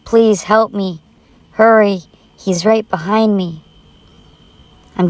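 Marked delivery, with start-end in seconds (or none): 0.0-3.6 urgent mock yell for help; retold yell for help. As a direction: call for help as he closes in. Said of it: "I yell out".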